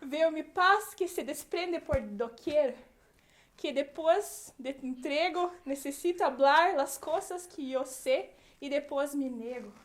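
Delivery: espanhol lento e dramático de novela; novela mexicana. Acted. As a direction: declame devagar, como mocinha de novela mexicana. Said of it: "Pronta pra próxima novela mexicana já". (declamação lenta de novela mexicana)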